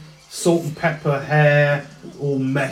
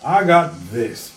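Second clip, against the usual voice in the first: Texan drawl; slower than usual. Acted. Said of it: "and just goes".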